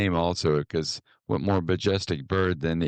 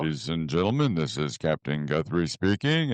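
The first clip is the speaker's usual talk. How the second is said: airline captain's cabin announcement; smooth captain-to-passengers voice; 2 semitones lower than usual. Retold or imitated. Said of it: "they called it my P A voice".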